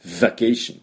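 vacation slowly, with a lengthened buzzing V; V, not B. Shown as a demonstration. Teacher repeating the corrected word, clear English V. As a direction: hold the V briefly before the rest of vacation. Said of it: "Vの音".

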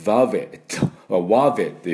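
ワベ read as spelled; wrong wabe reading. Shown as a demonstration. Teacher showing a wrong reading of wave. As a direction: say ワベ as a literal reading. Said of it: "読めないことはないんですが".

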